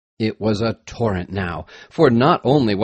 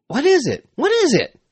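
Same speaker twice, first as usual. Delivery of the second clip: high, urgent calls; urgent questioning; faster than usual. A narrator's reading. Parties of men mounting the hill, urgent questioning. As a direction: call out the question high, alarmed. Miners asking as alarm spreads.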